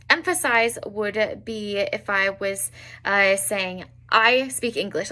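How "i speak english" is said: "I" leaned on for emphasis; stress on I. Shown as a demonstration. Teacher showing emphasis to learners, stress on "I". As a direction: put the weight on the word "I". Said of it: "like, I'm emphasizing it".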